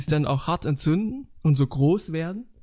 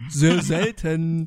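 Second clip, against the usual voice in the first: slow, careful around a sweet; repeating slowly with lozenge in mouth; sucking a throat lozenge; much slower than usual. Real, not acted. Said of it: "ich hab grad ein Salbeibonbon im Mund".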